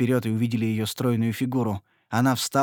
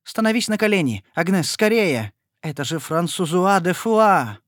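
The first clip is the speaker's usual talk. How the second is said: urgent urging; 6 semitones higher, 6 dB louder than usual. A narrator's reading. Etienne urging Agnes to kneel: urgent loud cry. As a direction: hurry her down to her knees.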